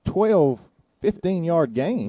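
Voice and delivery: popping p sounds. Real, not acted. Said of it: "it's hot or something".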